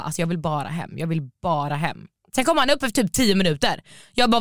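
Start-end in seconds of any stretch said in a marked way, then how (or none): 0.0-2.0 lower, subdued mock plea; deflated pleading. Guest back in the room wants home, deflated. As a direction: sink into a small, weary wish. Retold wish to escape home.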